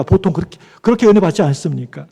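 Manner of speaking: ordinary talk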